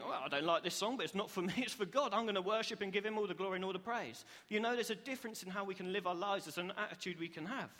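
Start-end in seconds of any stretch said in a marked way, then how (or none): 0.0-4.2 reluctant start lifting into upbeat resolve; positive, building conviction; willing worshipper. Acted. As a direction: talk yourself round to praising gladly. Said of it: "Or do you think".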